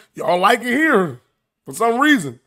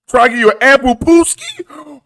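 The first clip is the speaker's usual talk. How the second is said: mock shout; 5 semitones higher than usual. Reading the Meek allegation aloud, mock shout. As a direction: shout the silly rhyme in disbelief.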